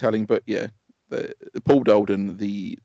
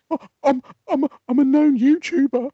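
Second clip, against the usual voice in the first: high, panicky mock boast, pitched up; panicked blurt; 6 dB louder than usual. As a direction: blurt it out in a nervous panic, voice jumping up. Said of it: "and I went".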